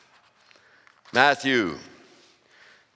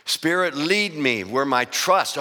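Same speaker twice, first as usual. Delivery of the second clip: slow, reverent reading of the lyric; reading lyrics aloud. Acted. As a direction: savor each word of the prayer. Reads song lyric slowly.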